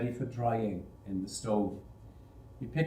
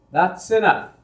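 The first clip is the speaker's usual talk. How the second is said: sharp stop; 6 semitones higher, 8 dB louder than usual. Acted. Foreman cuts off the boy.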